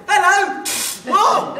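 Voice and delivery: a bright, surprised hail to the neighbours; cheery greeting. Acted. Soldier hailing friendly trench neighbours, cheerily.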